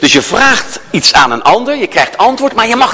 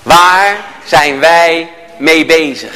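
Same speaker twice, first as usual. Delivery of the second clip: put-on old cop's question; 3 semitones lower, much slower than usual. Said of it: "En die zegt dan".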